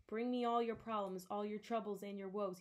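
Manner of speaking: loud desperate scream. Acted. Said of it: "he screamed".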